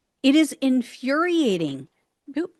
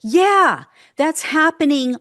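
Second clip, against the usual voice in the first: sarcastic; 5 semitones higher, 5 dB louder than usual. Acted. Sarcastic reply to mocked voters.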